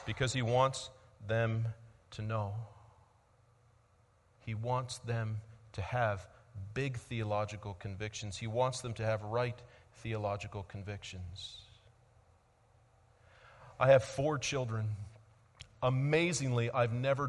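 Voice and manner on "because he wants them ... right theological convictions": hushed emphasis. Real, not acted. Preacher presses home why Jesus acts, hushed. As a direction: lower the voice to land it. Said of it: "preacher drops voice for point".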